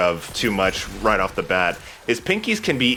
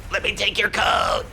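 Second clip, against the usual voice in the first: mock polite shout; 11 semitones higher than usual. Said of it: "I'm sorry, what did you say?".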